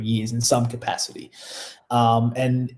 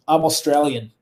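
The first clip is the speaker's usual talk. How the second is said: put-on broad Australian Ocker accent; 3 semitones higher than usual. Wrestler correcting Kevin Nash's assumption, broad Ocker accent. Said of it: "in the most Ocker accent".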